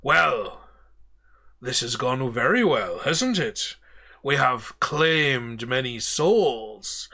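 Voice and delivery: lightly voiced menacing ghost captain; slow, gloating sea captain claiming souls; a hint of a pirate captain offering a choice; Davy Jones.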